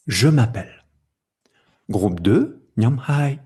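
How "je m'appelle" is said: "Je m'appelle" as one unbroken group; one rhythmic block. Shown as a demonstration. Teacher demonstrating group one, said as one block. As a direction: say "Je m'appelle" together in a single block. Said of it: "un bloc".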